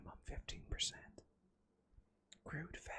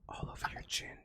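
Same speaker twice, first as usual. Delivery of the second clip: whispering; 3 dB louder than usual. Pretend. ASMR echo effect.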